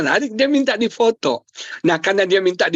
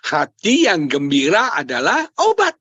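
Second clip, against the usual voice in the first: measured recital; 2 semitones lower than usual. Retold or imitated. Husband answers wife's caption request, measured recital. Gives his caption to wife.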